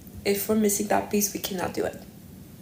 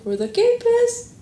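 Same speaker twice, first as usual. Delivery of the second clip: panicked squeal; 14 semitones higher, 6 dB louder than usual. Retold or imitated. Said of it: "I'm like".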